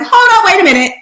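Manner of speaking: high, loud startled double take; imitating her own sudden surprise; surprised. Recalling hearing Janice's accent, loud surprised double take. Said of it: "and I'm like".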